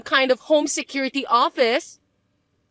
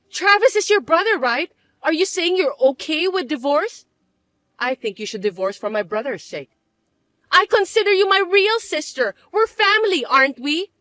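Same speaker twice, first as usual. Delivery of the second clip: fake pleading; 5 semitones higher than usual. Pleading sister-in-law.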